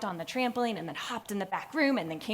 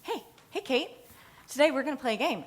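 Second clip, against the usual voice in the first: put-on eager kid; 6 semitones higher, faster than usual. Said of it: "they're like".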